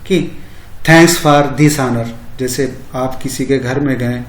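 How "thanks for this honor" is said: very slow "Thanks for this honor"; slow demo phrase. Shown as a demonstration. Teacher modelling a polite thank-you for students, very slow. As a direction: lay out every word of "Thanks for this honor". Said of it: "आते समय आप कहेंगे".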